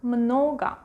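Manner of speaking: "много" said MNO-ga; "много" ending in an A sound; final O as A. Shown as a demonstration. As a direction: model "много" with the last O reduced to A. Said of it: "is A".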